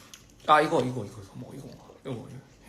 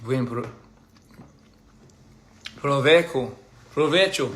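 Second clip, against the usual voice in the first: Italian-sounding accent. Shown as a demonstration. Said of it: "I made it sound Italian somehow".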